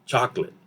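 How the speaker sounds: CHOCOLATE as a quick CHOCK-lit; CHOCOLATE reduced, no middle O. Shown as a demonstration. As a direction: squeeze CHOCOLATE into two short syllables. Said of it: "very quick".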